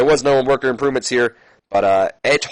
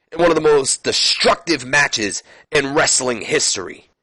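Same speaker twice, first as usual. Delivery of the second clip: lightly voiced menacing questions; Benoit's threat. Benoit taunting Edge about Hell in a Cell, lightly voiced. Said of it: "and he says".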